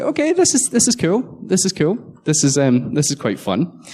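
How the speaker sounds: starts high and eager, settles down; gleeful then calming; mock excitement fading. Watching hackers broadcast themselves, excited then calming. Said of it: "so I was like".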